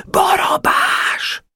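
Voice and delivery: drawn-out stage whisper; whispered name. Acted. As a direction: whisper it slowly, as a call from afar. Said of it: "amint suttogva mondta valaki". (suttogva, elnyújtva szólítva)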